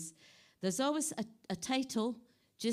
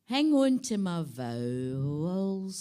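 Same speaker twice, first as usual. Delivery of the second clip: loud; 5 dB louder, slower than usual. Acted. Poem reading, contrasted line.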